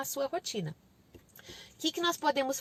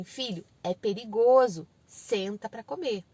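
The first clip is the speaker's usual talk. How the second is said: slow, spaced-out parental instruction; measured, deliberate parent voice; instructing parent; 2 semitones lower, 3 dB louder, slower than usual. Shown as a demonstration. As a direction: spell it out firmly for a toddler. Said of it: "Você pode falar assim".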